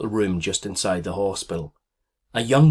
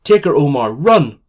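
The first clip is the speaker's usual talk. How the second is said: high, loud urgent command; urgent shout; 6 semitones higher, 10 dB louder than usual. Acted. Mother sending her son running with the baby, urgent shout. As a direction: shout at him to go now.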